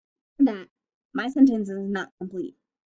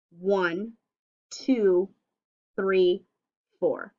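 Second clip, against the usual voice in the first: counting words; 4 semitones lower, much slower than usual. Shown as a demonstration. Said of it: "How many words do you see".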